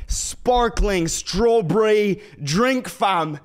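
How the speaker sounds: put-on loud, silly stab at a British accent; mock British accent. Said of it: "speaking in a British accent".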